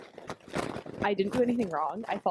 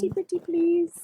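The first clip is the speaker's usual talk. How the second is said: pleading; 9 semitones higher, 4 dB louder than usual. Pretend. Pleading to the landlord.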